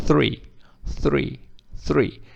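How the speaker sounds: THREE with a blown TH and long EE; correct TH. Shown as a demonstration. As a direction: model THREE clearly, repeated with pauses. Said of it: "você pronuncia corretamente". (three com th soprado e I longo)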